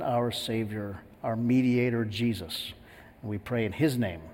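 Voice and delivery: measured, reverent congregational prayer. Real, not acted. Pastor leads the church in prayer before communion, praying.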